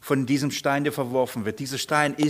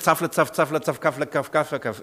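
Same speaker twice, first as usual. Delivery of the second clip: rhythmic nonsense syllables, evenly rattled off; incomprehensible foreign babble. Acted. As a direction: imitate a language nobody understands. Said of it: "für euch klingen wie Zafla".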